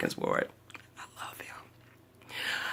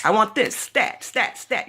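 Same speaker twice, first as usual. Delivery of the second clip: brisk imitation of urgent doctor's orders; retold rapid-fire order, raised in pitch; quick; 5 semitones higher, slower than usual. Doctor orders tests at once, quick and urgent. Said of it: "he was so quick".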